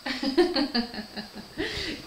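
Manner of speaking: real amused laugh after the imitation. Real, not acted. Vlogger laughing to viewers after mimicking Sophie's Belgian accent. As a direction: laugh at her own Belgian accent bit.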